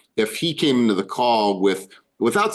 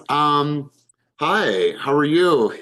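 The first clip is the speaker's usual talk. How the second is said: hesitant hello after a drawn-out um; stall, then offer a tentative hi; uncertain greeting; 4 semitones higher, much slower than usual. Shown as a demonstration. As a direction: demonstrate an unsure, higher-pitched greeting. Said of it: "how certain or uncertain somebody is".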